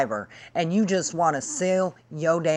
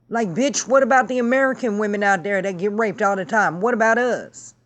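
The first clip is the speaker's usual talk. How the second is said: higher and louder, fast indignant challenge; indignant outburst; 4 semitones higher, 3 dB louder than usual. Real, not acted. Demanding the guest care about American women, indignant and fast. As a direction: fire the questions at her, offended.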